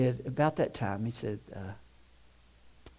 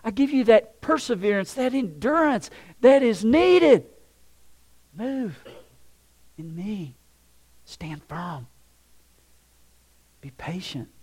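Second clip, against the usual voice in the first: loud, high, emphatic preaching; impassioned command, easing slightly in volume; forceful exhortation; 9 semitones higher, 10 dB louder than usual. Acted. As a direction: urge them onward as God speaking. God answers the complainer with exhortation.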